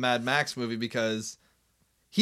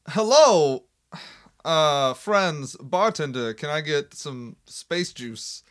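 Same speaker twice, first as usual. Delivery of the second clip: Christopher Walken impression; much slower than usual. Walking into a space town bar, the villain orders in a mock Walken drawl. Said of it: "and he's like".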